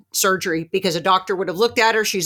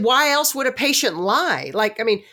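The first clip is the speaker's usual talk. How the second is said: higher-pitched, indignant retelling; exasperated insistence, pitched up; insistent protest; 4 semitones higher than usual. Retold or imitated. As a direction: plead your case to a doubting doctor. Acted argument with dismissive doctor.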